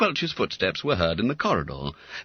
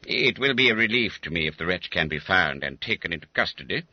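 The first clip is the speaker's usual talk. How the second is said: lightly voiced schoolmaster; 3 semitones lower, faster than usual. Quelch speaks.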